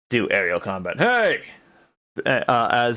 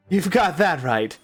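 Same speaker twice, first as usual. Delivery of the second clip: put-on failed Southern accent; 6 semitones higher than usual. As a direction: try a Southern accent and lose it. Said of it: "I can't do a southern accent".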